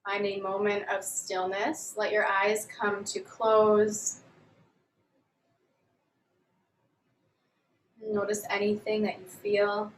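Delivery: calm, measured yoga instructor voice; guided yoga. Real, not acted. Yoga teacher leading students through a grounding warm-up, calm guided delivery. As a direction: guide them gently through each movement, leaving long pauses.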